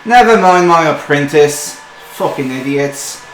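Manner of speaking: loud, sharp telling-off of the apprentice; scolding dwarf mistress. Acted. Dwarven woman brushing off her apprentice, loud and sharp. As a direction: dismiss him with a snarl. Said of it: "he goes".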